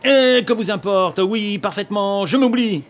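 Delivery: loud, high, angry retort; furious through clenched teeth. Acted. Young man advancing on the older one, furious. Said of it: "les dents serrées et s'avançant furieux".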